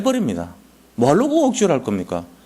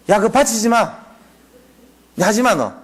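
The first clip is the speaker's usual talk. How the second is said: God's voice, raised and higher, scolding; raised, higher-pitched God rebuking a grudging servant; God forbidding; 6 semitones higher, much slower than usual. Retold or imitated. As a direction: bark it down like an annoyed God calling off the offering. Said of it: "하나님 뭐라니까".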